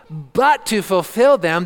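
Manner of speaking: "but" drawn out with heavy stress; slow down and lean hard on "but"; emphatic "but". Shown as a demonstration. Preacher showing the congregation the Greek contrast, emphatic "but". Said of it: "It's an emphatic but".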